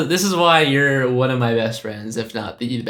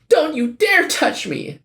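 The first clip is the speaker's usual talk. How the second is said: high, slow, indignant cartoon-cat voice; voiced cartoon cat; 14 semitones higher than usual. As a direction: huff it out high like an offended cat lady. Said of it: "do the voices".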